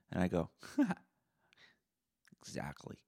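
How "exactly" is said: whispered. Retold or imitated. Smug whispered reply.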